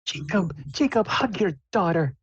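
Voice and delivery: high falsetto mother prodding her husband; nudging mom. Acted. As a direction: chide him in a high mom voice. Mom urges dad to hug.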